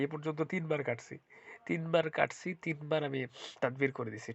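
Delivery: speaking with a blocked nose; stuffy nose. Real, not acted. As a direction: talk through a head cold. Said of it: "ঠান্ডায় নাক বন্ধ হয়ে গেছে". (নাক বন্ধ গলায়)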